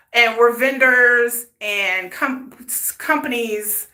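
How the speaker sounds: stumbling over words, sore mouth; tongue-tied from braces. Real, not acted. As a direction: talk with freshly tightened braces. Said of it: "I'm tongue-tied today".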